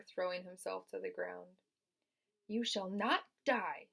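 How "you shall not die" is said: brisk. Acted. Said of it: "said Charlotte briskly".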